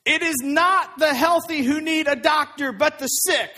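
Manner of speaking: measured, emphatic quotation; scripture quote. A narrator's reading. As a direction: read the quote out firmly and clearly. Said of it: "Jesus said to them".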